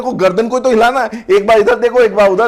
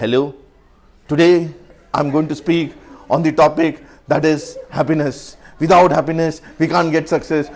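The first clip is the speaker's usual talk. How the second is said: stiff nervous speech; 4 semitones lower, much slower than usual. Shown as a demonstration. Trainer acts a new man at the mic, slow and stiff. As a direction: drone it out stiffly, eyes locked. Nervous male staring at a female.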